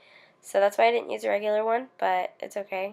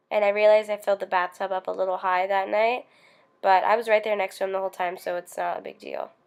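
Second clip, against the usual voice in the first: short of breath, rushing words; breathless from asthma and illness. Real, not acted. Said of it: "sorry if I sound like I'm out of breath".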